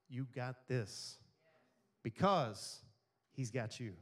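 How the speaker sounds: preacher dropping low to drive it home; slow emphatic close. Acted. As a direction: land it slowly with pauses. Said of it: "preacher emphasis".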